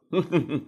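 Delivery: quiet low mocking chuckle; soft chuckle. A narrator's reading. Man chuckling at the secretary, soft and low. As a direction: laugh under the breath at her. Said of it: "พูดกลั้วหัวเราะ".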